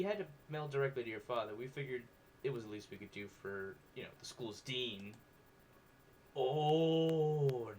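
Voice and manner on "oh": surprised oh. Real, not acted. Sudden realization about the plot.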